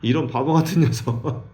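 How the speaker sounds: mock angry. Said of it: "화나겠죠".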